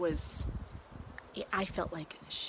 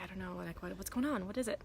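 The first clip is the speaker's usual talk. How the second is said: quiet night voice; 5 dB quieter, faster than usual. Retold or imitated. Soothing crying toddler at night.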